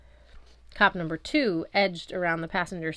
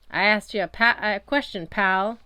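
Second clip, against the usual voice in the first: louder, pushy cop demanding an answer; menacing cop; 2 semitones higher, 7 dB louder than usual. A narrator's reading. Cop presses the stranger for an answer, louder and menacing. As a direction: lean on him like a cop with his patience gone. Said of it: "the first cop said".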